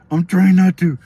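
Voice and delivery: put-on high, loud kid's protest; imitated little brother. Little brother told not to laugh, high protest. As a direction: blurt it high like a child holding back giggles.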